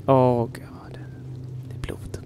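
shocked little whisper. Real, not acted. Spotting blood in the game, whispered. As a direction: breathe it out in a whisper.

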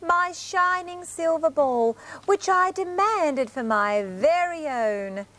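slow, proud lion roar; a hint of a demanding king; booming warrior king. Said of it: "roared the king".

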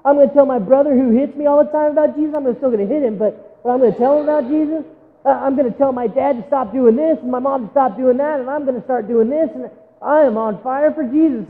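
put-on teen home from camp vows to tell everyone, excited; excited camp kid. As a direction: gush like a kid fresh from camp. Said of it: "you go home from camp and you're like".

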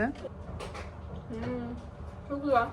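talking round a hot bite; mouth full of hot food. Real, not acted. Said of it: "Ağzım yandı benim de".

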